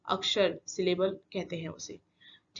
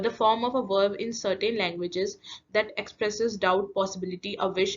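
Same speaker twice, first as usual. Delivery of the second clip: slow dictation; much slower than usual. Shown as a demonstration. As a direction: read out slowly, word by word, for students to write. Teacher dictating an English definition.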